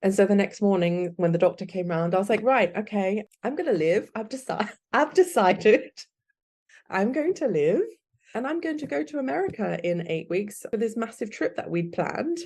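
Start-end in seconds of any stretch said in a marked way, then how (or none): 2.4-12.4 retold defiant resolve, pitched higher with a laugh; determined declaration. Telling her doctor she has decided to live, high and determined. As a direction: announce it like your mind is made up.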